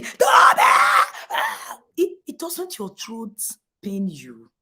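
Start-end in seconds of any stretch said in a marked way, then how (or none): 0.0-0.6 full-throated yell, high and loud; yelling a name. Shown as a demonstration. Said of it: "this thing I did now". 1.3-1.8 strained cry. Shown as a demonstration. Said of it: "I've lost my voice".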